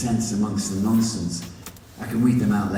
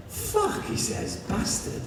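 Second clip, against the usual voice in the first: awed curse; 3 dB quieter, slower than usual. Acted. Lee's envious curse.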